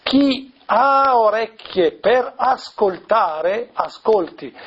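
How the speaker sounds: Gesù. Retold or imitated. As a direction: proclaim it slowly, stretching the words, without shouting. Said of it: "alzare la voce più forte". (proclamazione lenta, grido appena accennato)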